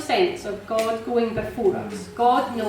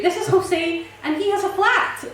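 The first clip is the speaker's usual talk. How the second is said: high, eager and delighted; can hardly contain the good news; excited news; 10 semitones higher than usual. Retold or imitated. Telling Bryony the owner has a flat, high and thrilled.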